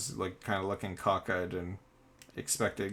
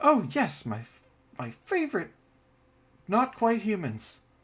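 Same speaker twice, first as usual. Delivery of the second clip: very high, swooping, sing-song dog voice; 12 semitones higher, 4 dB louder than usual. As the dog answering someone who cast speak with animals, Sparky's dog voice. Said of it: "the dog speaks back in a you know dog voice and goes".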